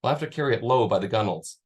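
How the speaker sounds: steady read-aloud storytelling voice; story narration. Acted. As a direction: read the passage to listeners. Author reads novel passage aloud.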